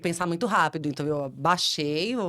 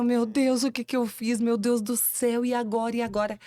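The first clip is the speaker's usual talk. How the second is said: pânico; 6 semitones higher than usual. Retold or imitated. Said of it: "Comecei a tremer".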